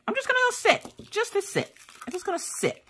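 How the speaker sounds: very high, fading squeak; small worn-out voice. Pretend. Done after a morning of interruptions, small squeaky voice.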